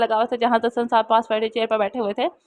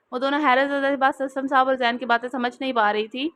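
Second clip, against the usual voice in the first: usual speaking voice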